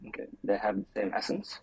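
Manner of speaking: muffled, underwater-sounding mic. Real, not acted. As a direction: voice through a bad muffled mic. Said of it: "you sound like you're underwater".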